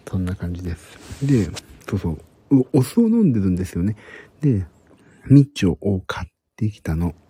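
hushed whisper throughout. Real, not acted. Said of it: "今日はひそひそ声で話しております。".

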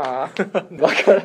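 slow words dissolving in laughter; laughing helplessly. Real, not acted. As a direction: say it while cracking up. Cracking up at the joke.

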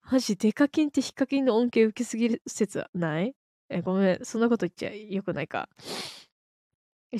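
usual speaking voice

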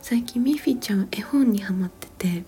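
ordinary talk

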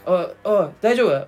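mock radio call. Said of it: "言うじゃん、その鳥人間の人もさ".

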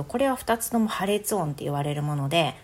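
normal talking voice

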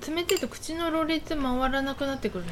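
tongue numb from shaved ice; slurring with a cold mouth; slurred speech. Real, not acted.

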